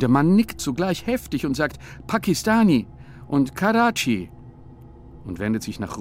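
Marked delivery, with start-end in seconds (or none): 2.1-4.3 higher, louder eager broken words; eager stranger. Acted. The stranger eagerly tells the men where he comes from, higher and louder. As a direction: nod along eagerly, explaining.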